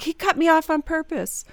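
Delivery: mock-aggrieved driver; acted personal affront. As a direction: act out taking it personally. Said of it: "There's, like, personalization".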